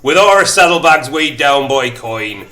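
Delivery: a light Birmingham lilt on the narration; Brummy accent. Acted. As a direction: read it with a mild Brummy twang. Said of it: "Was that a Brummy accent?".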